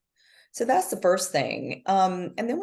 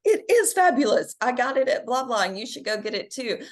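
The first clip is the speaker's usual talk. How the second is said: ¡Es fabulosa! dicho con orgullo, agudo y fuerte; gushing proudly; 6 semitones higher than usual. Retold or imitated. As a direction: brag about it with delight. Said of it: "being like".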